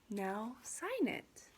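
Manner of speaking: slow, calm teacher voice; unhurried, gentle instruction; quiet instruction. Acted. Teacher pushing paper toward pupil, quietly gentle. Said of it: "quietly said".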